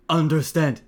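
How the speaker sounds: loud, dim-monster reply; baffled creature catching on, loudly; bugbear voice. Acted. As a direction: answer like a big, simple beast. Bugbear answers the whispered plan.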